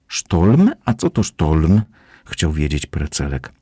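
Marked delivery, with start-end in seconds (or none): 0.1-1.8 high, louder lisping little kitten asking; a small kitten who can't say his r's, curious. Acted. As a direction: kitten asks what a storm is, lisping and high. Kitten lisps a curious question.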